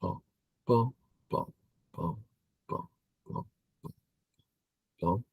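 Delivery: quietly sounding out moves; murmured bums, spaced out as you think; very soft, absent-minded bum-bum; soft bum-bum sounds. Real, not acted. Sounding out moves while reading board.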